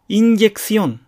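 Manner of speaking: "インジェクション" as Spanish inyección, n like ñ; tongue blade to palate for the ン in インジェクション; ñ-like n early in インジェクション; palatalized n. Shown as a demonstration. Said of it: "エニェと同じ発音".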